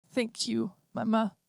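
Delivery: put-on a gentle child android thanking her mother; hint of a small girl; little girl voice. A narrator's reading. Child android daughter speaks.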